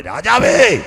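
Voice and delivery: loud high call to the king. Acted. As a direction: cry out to the king. Esther calls out to king. (രാജാവിനെ ഉറക്കെ വിളിക്കുന്നു)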